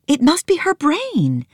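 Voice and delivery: put-on high girl's voice, tearful; small girl weeping with joy at her elephant; Nancy weeping. Little girl tearfully greeting her elephant, high voice.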